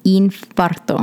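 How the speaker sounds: Infarto slow, clear Spanish vowels; Spanish word. Shown as a demonstration. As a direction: say Infarto slowly, Spanish style. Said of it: "No C in there".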